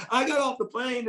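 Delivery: put-on giggling retelling of a drunk friend; giggling imitation. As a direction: play it up, amused at the story. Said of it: "I'm exaggerate".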